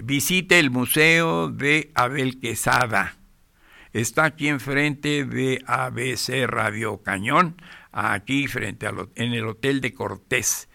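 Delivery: anuncio leído despacio y marcado; lectura de anuncio. Acted. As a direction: recita el anuncio con calma de locutor. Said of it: "me comprometí a decir". (anuncio de radio leído lento para el oyente)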